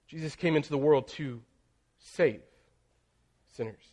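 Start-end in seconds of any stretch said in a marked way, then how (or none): 0.1-2.4 pause, then save set apart and leaned on; stress on save. Shown as a demonstration. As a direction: hold back, then give save its weight. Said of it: "each time you're putting emphasis on a different word".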